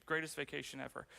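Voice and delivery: understated, dry sarcasm; sarcastic. Real, not acted. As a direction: toss it off as a dry aside. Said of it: "That was sarcastic".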